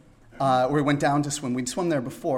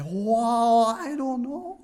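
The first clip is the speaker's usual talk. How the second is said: put-on higher accented reply; imitating Toshi; 8 semitones higher, much slower than usual. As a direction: shrug it off happily.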